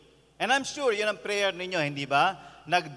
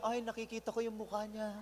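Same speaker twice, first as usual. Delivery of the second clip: much softer, dreamy mock swoon; dreamy murmur; 11 dB quieter than usual. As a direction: swoon over the face softly. Dreamy lover, very soft. (napakahinang kunwaring pangangarap)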